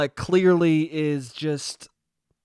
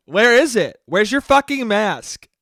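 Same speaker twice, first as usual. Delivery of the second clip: mock scolding; 3 semitones higher, 6 dB louder than usual. Mocking the girl's scolding.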